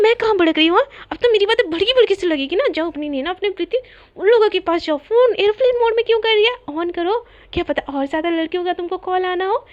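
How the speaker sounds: acted temper, sarcastic digs; flared-up jealousy. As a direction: snipe like a jealous roommate. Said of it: "इतना भड़क क्यों रही हो".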